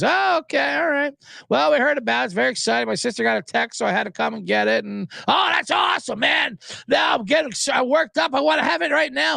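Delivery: mock excited customer. Customer quoted gushing over dip.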